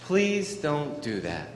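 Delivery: slow gentle please don't do that; calm, slow request. Shown as a demonstration. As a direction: ask firmly but kindly. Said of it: "And then say".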